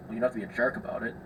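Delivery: quick, subdued imitation of retreat; backed-down protest. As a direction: back off with a hurried little objection. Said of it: "Brought it right back down to a four".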